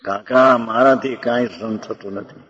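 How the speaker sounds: imitating a girl in agony; pained plea. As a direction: beg uncle for relief. Voicing dying girl's plea.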